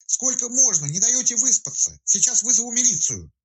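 high, irritated woman's yell; annoyed shout. A narrator's reading. Woken woman yelling at men at her gate, annoyed high shout. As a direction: snap at the strangers at the gate. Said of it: "недовольный женский крик".

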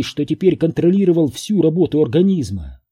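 ordinary delivery

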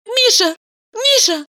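high woman's voice calling Misha hurriedly; Valeria's high hurried cry. A narrator's reading. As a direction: call after him in a rush, high. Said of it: "торопливо закричала она".

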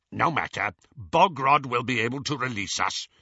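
a hint of a curt goblin banker; a lightly voiced goblin, calm and dismissive. Griphook the goblin speaks.

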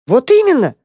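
high, eager exclamation; exclaiming. A narrator's reading. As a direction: jump in with delight. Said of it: "воскликнул мышонок".

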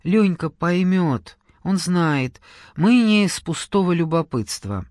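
a gentle apology to the absent friend; mild sorry tone; apologetic. Acted. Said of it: "Извиняющимся тоном".

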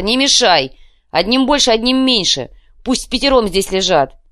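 high, loud rage; furious shout. Acted. Leshy shoving Sakhar aside, furious loud shout. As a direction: roar him off.

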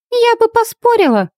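high, teasing snort of a reply; snorting girl's retort. A narrator's reading. Winnie snorts back at the werewolf, high and teasing. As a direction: toss it off high and mocking. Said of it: "хмыкнула Винни".

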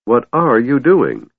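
disgusted. A narrator's reading. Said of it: "Tass asked in disgust".

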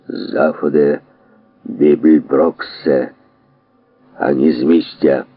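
a lightly voiced, low booming order; megaphone voice. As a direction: bark it through a megaphone. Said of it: "гримнув голос, підсилений мегафоном".

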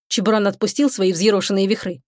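usual speaking voice

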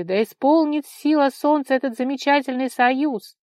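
loud, high proclamation of joy; joyful crowd shout. A narrator's reading. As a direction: call it out to the whole crowd. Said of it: "закричали небожители".

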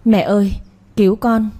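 mild sobbing call for help; crying out in fear. Acted. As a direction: cry out to mother, lightly acted terror. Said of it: "khóc thét lên".

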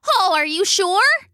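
high, perky duck voice; chirpy duck. A narrator's reading. The duck asks the dog, high and bubbly.

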